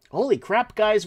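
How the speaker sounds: high, loud burst of amazement; real delight at the numbers; surprised exclamation. Real, not acted. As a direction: blurt it out, genuinely amazed. Excited at viewer count.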